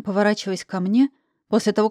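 ordinary delivery

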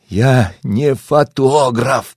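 very slow, drawn-out moan of despair; despairing groan. Acted. Narrator groans in despair at the family's guesses. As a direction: groan it out, at wit's end. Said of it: "простонал я в отчаянии".

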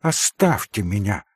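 lightly voiced distraught young woman; a hint of a distraught heroine sending him off; Katya, agitated. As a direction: push him away, strained and tense.

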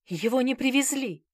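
high, loud squeal of fright. Acted. The manager recoiling from Bazarov, high squeal. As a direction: squeal it out in panic. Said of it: "взвизгнул управляющий".

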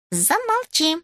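high snapped hush; sharp hush. Acted. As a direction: cut him off sharply. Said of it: "оборвала его Симонна".

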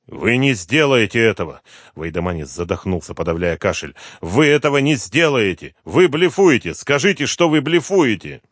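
high, loud panicked protest; panicked disbelief. A narrator's reading. Frightened father to detective, high panicked protest. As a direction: beg him to admit it's a bluff.

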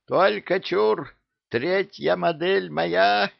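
high, slow, eager cry; high and slow, like a greedy kid; excited. A narrator's reading. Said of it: "заволновался Гасан".

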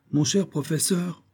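high, genial address; lightly amused, conciliatory; smiling. A narrator's reading. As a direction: soothe with a smile in the voice. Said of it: "dit-il en souriant".

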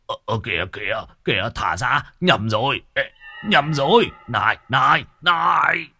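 panicked stammer rising to a shout; flustered stammering. Acted. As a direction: sputter in panic while being grabbed. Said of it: "Nhất thời lão Toét ú ớ".

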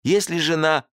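high, eager pleading voice; pleading host. A narrator's reading. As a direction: press him hard, voice up high. Host continues pleading, cut off.

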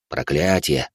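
a hint of an old man, "проклятие" falling. Old man names the curse.

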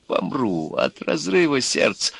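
жалобно, высоко и медленно; простонать, будто сердце не выдержит; со стоном. A narrator's reading. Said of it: "застонал Иван". (страдальчески)

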